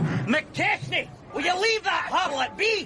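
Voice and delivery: calling out across the docks; shout. Acted. Foreman shouting at a dock worker to leave a woman be. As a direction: yell it across the yard.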